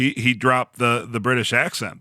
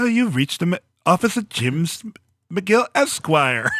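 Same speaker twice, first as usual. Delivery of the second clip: terrible fake British accent, pitched up; 6 semitones higher than usual. Retelling a character answering an office phone: terrible fake British accent. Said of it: "the terrible British accent".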